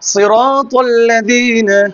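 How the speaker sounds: সিরাতাল্লাযিনা stretched very slowly, syllable by syllable; slow model recitation. Shown as a demonstration. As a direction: draw out সিরাতাল্লাযিনা for the child to repeat. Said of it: "teacher models for student". (খুব ধীরে টেনে শেখানো)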